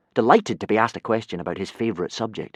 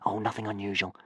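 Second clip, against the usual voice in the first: whispered; 7 dB quieter than usual. Acted. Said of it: "Hiccup whispered back".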